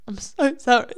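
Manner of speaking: voiceless, repeated apology; whispered mock apology. Worker apologizing for old notes, whispered mock contrition.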